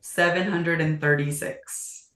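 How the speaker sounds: slow, deliberate delivery of the number; slow and proud. Shown as a demonstration. Agent repeats her referral number for the host on request, slowly. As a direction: spell the figure out slowly, savoring it. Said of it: "Say it slow".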